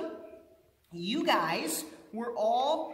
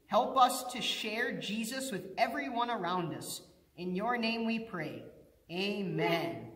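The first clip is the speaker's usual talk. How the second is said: prayer. Acted. Leads children in prayer.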